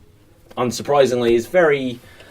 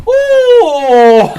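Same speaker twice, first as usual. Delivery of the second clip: high nurse voice; 14 semitones higher, 10 dB louder than usual. Acted. Nurse voice in scene.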